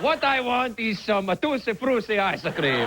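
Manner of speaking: slightly high, slow pretentious art-lover voice; art snob. Retold or imitated. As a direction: play a bored art snob.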